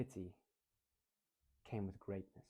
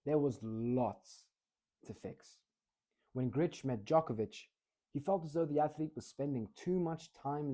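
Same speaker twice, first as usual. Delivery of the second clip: vary the speed phrase by phrase; mixed pace. Shown as a demonstration. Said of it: "combine the two".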